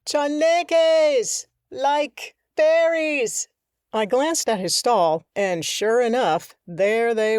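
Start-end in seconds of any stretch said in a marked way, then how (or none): 0.1-3.5 higher, slow drawn-out call; shopkeeper calling down. Acted. Shopkeeper naming the creatures from his window, higher and slow. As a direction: stretch it out across the street.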